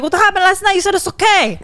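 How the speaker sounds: hammed-up pleading busboy; mock busboy. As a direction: Hector playing innocent. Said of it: "then he's like".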